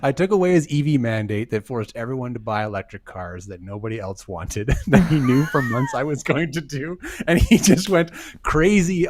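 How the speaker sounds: lightly voiced Trump; mock presidential statement; hammy dramatic reading. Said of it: "Can you do a dramatic reading of this for us?".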